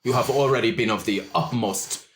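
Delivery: a hint of a smooth French charmer; French-accented orc. GM plays Le Chat.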